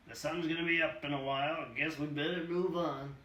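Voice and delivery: a lightly voiced old hobo welcoming him; old hobo Doc. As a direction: greet the kid like an old drifter. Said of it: "Doc rises and says".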